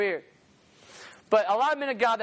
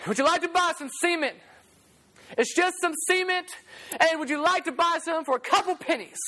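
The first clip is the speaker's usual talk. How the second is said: higher, light street-seller call; peddler's pitch; 6 semitones higher than usual. Retold or imitated. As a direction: offer it a bit higher, like a hawker. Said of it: "Walk around".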